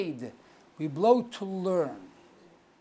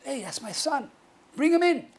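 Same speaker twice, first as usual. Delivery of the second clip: higher-pitched acted recognition; father recognizing son; 5 semitones higher than usual. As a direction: play the father suddenly knowing his child's cry. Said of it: "hears the cry".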